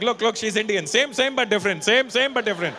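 loud, high Indian market seller; Indian bargaining. Pretend. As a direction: Indian trader pitching to a customer, loud. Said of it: "I'm like".

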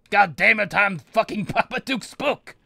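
indignant villain shout. Pretend. Sorcerer proclaiming who he is, indignant villain shout. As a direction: proclaim it angrily at full voice. Sorcerer rants his own name.

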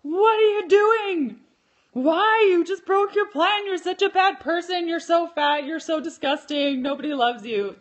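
high, loud, scolding inner-critic voice; the mean inner voice tearing into the speaker over eating berries, high and loud; harsh inner critic. Retold or imitated. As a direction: berate yourself like a cruel voice in your head. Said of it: "that voice comes in like".

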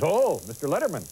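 lightly put-on Japanese accent, swooping tune; imitated Japanese accent. Guy comes up to the diner to greet him, imitated Japanese accent. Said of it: "that's really the way he talks".

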